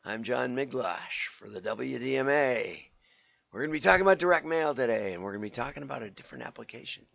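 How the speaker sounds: lost voice, hoarse and rough; talking through a hoarse, worn-out throat. Real, not acted. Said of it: "I've kinda lost my voice".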